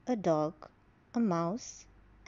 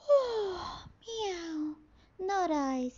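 high, lazy cat with a sigh; snooty bored cat; 7 semitones higher, much slower than usual. Acted. Cat refuses again.

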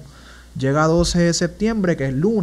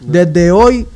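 louder, emphatic re-enacted vow; clamor a Dios; 6 dB louder than usual. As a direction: pledge yourself to God with force. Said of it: "clamándola a Dios". (promesa a Dios recreada, con voz fuerte)

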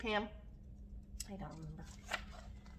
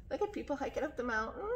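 usual speaking voice

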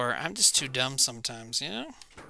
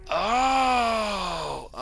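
surprised cry; 7 semitones higher, 3 dB louder than usual. Real, not acted. Sudden win in game.

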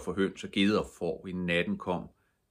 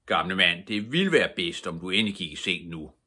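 stern; 5 dB louder than usual. Acted. Mattis insists again.

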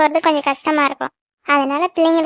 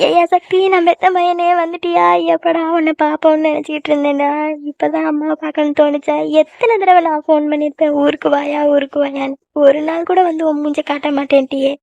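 acted weepy reproach; plaintive, a touch of crying in the voice; tearful. Mother reproaches her returned son for staying away, tearful. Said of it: "ஏம்மா இப்படி அழுதுட்டு இருக்க?".

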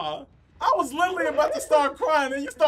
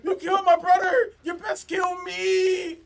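hammed-up revenge threat; dramatic Shaft-style vow of revenge; movie quote shout; 5 semitones higher than usual. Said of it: "That's from Shaft".

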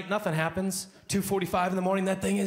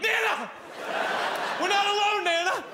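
put-on panicked kid. Kid screams to grandma about a butterfly, very high and panicked.

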